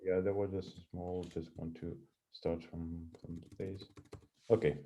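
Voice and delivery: faint and far from the mic; barely audible, away from the microphone; very low voice. Real, not acted. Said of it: "We hear you with a very low voice".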